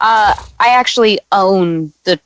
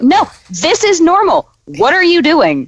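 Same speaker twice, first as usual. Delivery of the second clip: high, hammed-up fake British accent; mock British twang, pitched up; bad British accent; 9 semitones higher than usual. Friend mocking a movie's British character, hammed-up British accent. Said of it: "was that a terrible British accent?".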